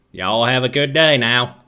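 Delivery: lightly done Texan accent at normal pitch; an easy, understated Texan twang. Shown as a demonstration. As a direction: say it as a relaxed Texan. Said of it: "I know how to do a Texan accent".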